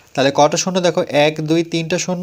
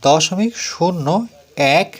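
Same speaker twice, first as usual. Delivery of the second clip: each word read out slowly with pauses; slow classroom read-out of দশমিক শূন্য এক; slow careful reading; slower than usual. Shown as a demonstration. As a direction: read it slowly, one word at a time, for pupils to copy. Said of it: "এভাবে উচ্চারণ করব বা বলবো".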